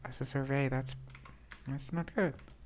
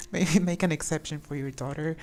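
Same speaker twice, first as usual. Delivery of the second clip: reading option, laughing. Real, not acted. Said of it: "We can say".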